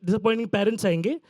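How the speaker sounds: rattled off fast like a shopkeeper pointing the way; quick-fire street directions, lightly voiced shopkeeper; shopkeeper giving directions. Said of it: "And he's like".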